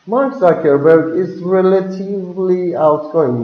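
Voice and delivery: relatively said smoothly, no big rise; even medium tune. Shown as a demonstration. Teacher models medium intensity: relatively said flat and smooth. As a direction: glide through relatively, level. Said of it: "you need to go smoothly, like nothing's happened".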